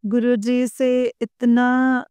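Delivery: usual speaking voice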